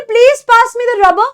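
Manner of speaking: rubber said slowly with the final r dropped; slow British rubber. Shown as a demonstration. Teacher playing a student asking for a rubber. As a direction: drop the last r, say it slowly. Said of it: "You will not say रबड़".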